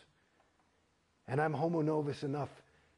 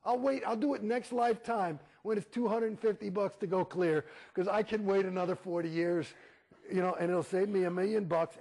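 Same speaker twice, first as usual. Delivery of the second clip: defiant retort; 5 semitones higher than usual. Retold or imitated. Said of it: "I said".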